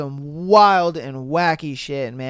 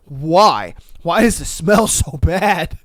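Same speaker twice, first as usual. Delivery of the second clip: mock disgust; 4 dB louder, slower than usual.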